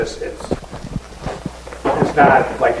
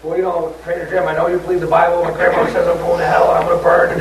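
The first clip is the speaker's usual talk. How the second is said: higher-pitched retelling of an outburst; retold yelling; 6 semitones higher than usual. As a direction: mimic an upset girl's outburst, only mildly raised. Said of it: "just start yelling out".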